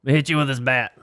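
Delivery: loud, high-pitched holler to a buddy; mock-eager yell across the yard; calling out. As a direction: shout a friend over, hammed-up. Imagined viewer yelling to a friend.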